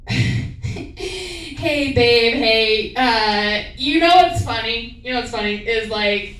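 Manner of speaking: lightly sing-song, innocent; asking boyfriend casually while fishing for answers; faux-casual fishing. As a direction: pretend it's no big deal. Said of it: "I'll walk into the room".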